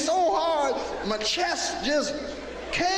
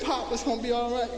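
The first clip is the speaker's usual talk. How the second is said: reassuring. Retold or imitated. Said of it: "I said".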